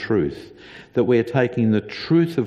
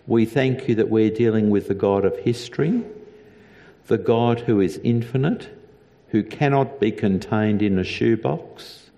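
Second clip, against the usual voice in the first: earnest spoken prayer to God. Acted. The pastor praying for the congregation, reverent and earnest.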